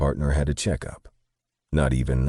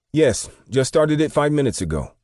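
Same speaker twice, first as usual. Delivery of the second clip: put-on much higher, louder voice in an Asian accent; thick Asian accent; 13 semitones higher, 5 dB louder than usual. A narrator's reading. Store clerk answering a customer, thick Asian accent. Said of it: "replied with a thick Asian accent".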